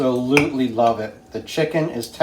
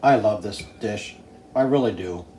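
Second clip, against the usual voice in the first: talking through a mouthful of food; chewing while speaking; mouth full; 6 semitones lower, 6 dB quieter than usual. Real, not acted. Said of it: "Don't talk with your mouth full".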